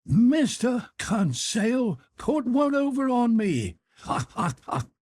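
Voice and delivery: slow, high laughing voice; Ned Land laughing heartily. A narrator's reading. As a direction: chuckle through it, amused. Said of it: "with a burst of laughter".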